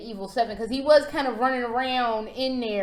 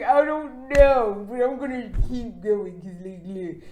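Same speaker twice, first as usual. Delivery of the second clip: deadpan Ethan; 2 semitones lower, 3 dB louder than usual. Retold or imitated. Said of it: "he's still all deadpan".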